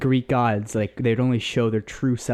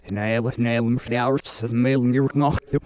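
backwards speech. Shown as a demonstration. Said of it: "I'm gonna read something in English, and you can do it backwards".

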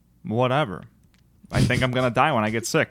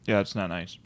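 talking while chewing a cookie; words round a mouthful of cookie; mouth full; 4 semitones lower, 5 dB quieter than usual. Real, not acted. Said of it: "he's chewing right now".

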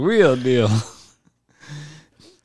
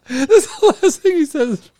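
whispered through laughter; laughing whisper; 12 semitones higher, 3 dB louder, slower than usual. Real, not acted. Friend explaining the joke, whispered through laughter. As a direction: breathe it out amused.

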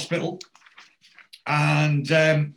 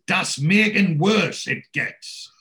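raised, slow mock-German protest; speaking up; 5 semitones higher, 4 dB louder, slower than usual. Old patient speaks up at the hospital staff, imitated protest. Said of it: "the guy speaks up".

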